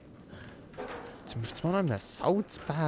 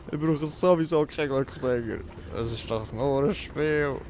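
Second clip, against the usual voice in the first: cocky. Pretend. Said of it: "wie ich richtig übermütig tue".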